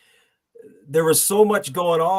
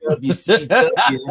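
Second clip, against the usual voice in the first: slow, high and loud drawn-out W C W; hammed-up announcer echo; 6 semitones higher, 6 dB louder, much slower than usual. Shown as a demonstration. Echoing his buddy like a ring announcer, slow, high and loud. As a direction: stretch out each letter of W C W, up high and big.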